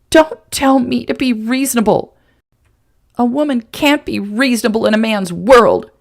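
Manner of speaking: spitting anger. Acted. Woman spitting back at the man who patronised her. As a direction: spit the words at him. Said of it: "she practically spit".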